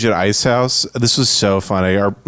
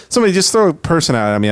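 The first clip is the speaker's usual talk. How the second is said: higher, quick pushy voice; mock eager hack comic; 6 semitones higher, faster than usual. Hack comic begs the crowd, higher and quick. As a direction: beg for requests. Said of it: "but he goes".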